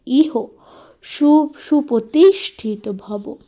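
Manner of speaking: slow, stretched-out mantra delivery; mantra recitation. Shown as a demonstration. Teacher showing how to consecrate the Shivalinga, slow recitation. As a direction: draw out each word of the mantra.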